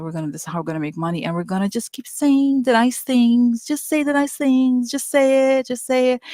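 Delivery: a hint of a bossy executive pushing a script; lightly voiced pushy exec; mock aggressive boss. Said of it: "She's very aggressive".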